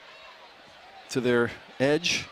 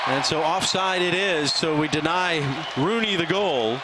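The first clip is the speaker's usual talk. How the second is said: raised, slow announcement of the verdict; excited call; 5 semitones higher than usual. Real, not acted. Commentator confirms the offside call.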